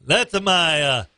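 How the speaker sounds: lightly put-on Oktoberfest accent, wandering between accents; a muddled mock Scottish-German voice; half-hearted mock German accent. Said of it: "you've covered three different accents".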